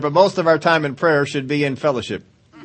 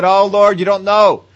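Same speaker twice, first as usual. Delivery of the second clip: a lightly whiny, complaining prayer; a touch of mock whining; mock whiny complaint; 2 semitones higher, 3 dB louder than usual. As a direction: play the self-pitying complainer, half-hearted. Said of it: "have we sat there and said".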